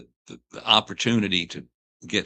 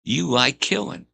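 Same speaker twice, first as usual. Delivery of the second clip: imitating Pee Wee; 7 semitones higher, 5 dB louder than usual. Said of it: "He said".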